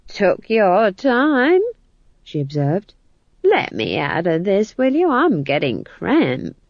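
put-on slow, dry old woman voice; unbothered old crone; cheerful old witch. Nanny Ogg speaks.

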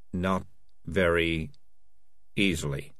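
hollow, halting echo. A narrator's reading. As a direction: let each piece drop out emptily. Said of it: "his voice now quite hollow".

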